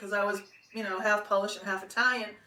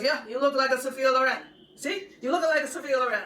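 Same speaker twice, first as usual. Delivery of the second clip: put-on higher, louder Italian-accented insistence; 4 semitones higher, 3 dB louder than usual. Photographer showing model her Polaroid, mild Italian accent. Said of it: "he had this Italian accent".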